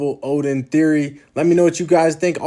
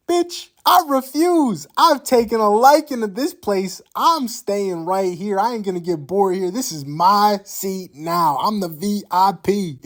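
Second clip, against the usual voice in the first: an arrogant king claiming the seat as his own; haughty emperor voice; 4 semitones higher than usual. Retold or imitated. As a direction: spoilt royal voice that won't be moved. Qin refusing to leave, voiced.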